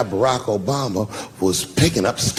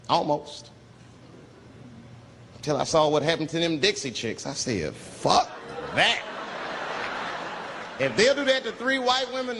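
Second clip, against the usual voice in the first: said in ear; 7 semitones higher, 7 dB quieter than usual. Retold or imitated. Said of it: "He said in my ear".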